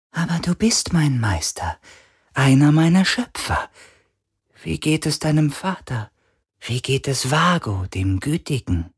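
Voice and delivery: high breathy spirit voice; ghostly whisper. A narrator's reading.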